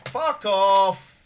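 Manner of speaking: a real, loud bark of rage; shouted fuck off at the caller who insulted him; furious shout. Real, not acted. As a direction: yell it at the caller, full force. Host shouting at rude caller.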